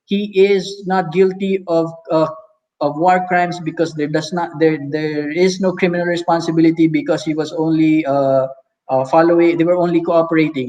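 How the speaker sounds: rushed monotone drone; droning on. Shown as a demonstration. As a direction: rattle it off without pauses. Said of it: "You can't drone out like that".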